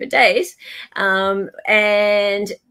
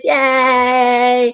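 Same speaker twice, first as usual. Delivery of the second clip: cheer; 4 semitones higher, 5 dB louder than usual. Real, not acted. Cheering guest at stream end.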